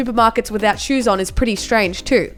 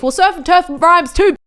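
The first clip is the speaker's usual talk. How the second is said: sassy comeback; 5 semitones higher, 4 dB louder than usual. Real, not acted. Defiant comeback to critics.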